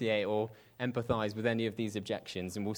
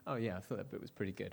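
offhand outside voice; 5 semitones lower, 9 dB quieter, faster than usual. Retold or imitated. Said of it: "on the outside".

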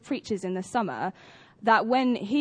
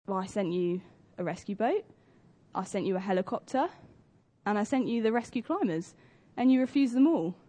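patient reply. Retold or imitated. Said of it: "And God says".

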